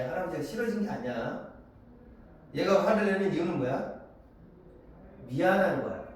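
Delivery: usual speaking voice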